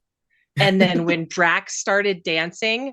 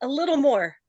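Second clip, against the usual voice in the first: higher, mischievous director twisting the knife; playfully cruel, raised pitch; teasing filmmaker adding more pain; James Gunn; 6 semitones higher than usual. Retold or imitated. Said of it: "James Gunn was like".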